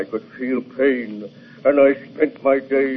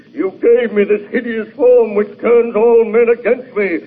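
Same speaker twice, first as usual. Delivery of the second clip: anguished outburst; 4 semitones higher than usual. Acted. Monster pleads with his creator.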